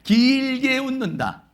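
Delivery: teacher drawing out the rule; drawn-out emphasis. Shown as a demonstration. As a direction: stretch the words like the laugh itself. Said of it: "어떻게 했느냐?".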